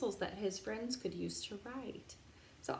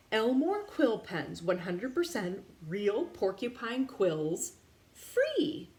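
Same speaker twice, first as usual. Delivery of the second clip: sign announcement; 4 dB louder, slower than usual. Acted. Elmore's sign advertising quill pens, slow and proud. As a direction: read it like a proud shop sign.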